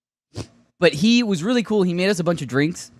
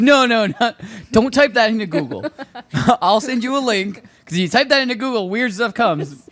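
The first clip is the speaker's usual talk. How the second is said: laughing warning; 5 semitones higher than usual. Retold or imitated. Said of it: "I said".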